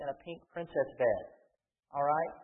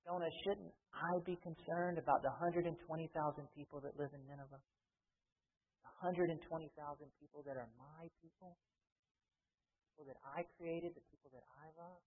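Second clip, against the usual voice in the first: tender pleading; 9 dB quieter than usual. Retold or imitated. God's plea voiced to Jonah.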